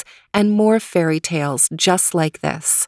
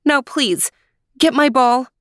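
impatient princess; 7 semitones higher than usual. Acted. Princess voiced in story.

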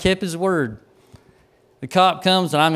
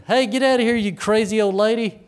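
higher-pitched mock yell; imitated yell; 5 semitones higher than usual. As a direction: call out like a heckler, without full volume. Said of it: "some guy's yelling".

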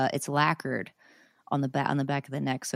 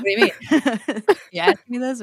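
high, loud, laughing disbelief; retold freak-out; 9 semitones higher, 9 dB louder, faster than usual. Guitarist retelling the offer of a signature guitar, freaking out. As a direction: relive the thrilled shock, laughing. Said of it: "but I freaked out anyway".

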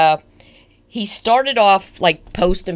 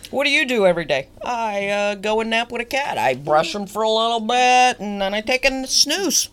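higher-pitched, lightly acted contented retiree; lightly voiced retiree; 4 semitones higher than usual. Host playing the cat-napping retiree, lightly acted higher voice. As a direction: play the cat napper a little higher.

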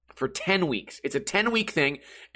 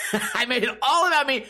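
laughing; 7 semitones higher than usual. Real, not acted.

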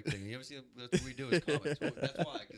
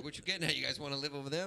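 Irish dad, lightly put on and pitched up; awful Irish accent; faster than usual. Father asks if couple want to move in, bad Irish accent. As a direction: probe suspiciously in a rough Irish accent. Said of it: "that's my awful Irish accent".

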